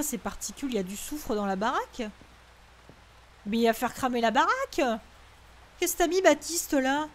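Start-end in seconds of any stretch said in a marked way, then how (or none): 3.5-7.1 alarmed shout. Real, not acted. Panicking at fire in game.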